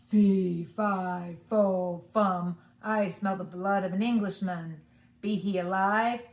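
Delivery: loud giant chant, each syllable hit hard; booming giant. A narrator's reading. Giant sniffing out his visitor, loud and booming. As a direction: boom it out like a hungry giant. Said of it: "and said".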